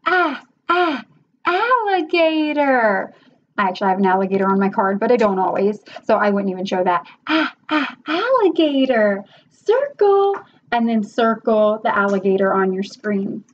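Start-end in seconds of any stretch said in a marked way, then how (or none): 0.0-3.1 teacher correction demo. Shown as a demonstration. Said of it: "You can say". 7.3-10.4 put-on drawn-out letter sounds for a child; phonics teacher demo. Shown as a demonstration. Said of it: "phonics prompt demo".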